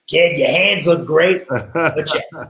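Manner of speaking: slow, lightly put-on harsh Michigan accent; a hint of a gruff old Michigan drum corps guy; mild mock Michigan accent, slowed down. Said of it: "in this real harsh Michigan accent".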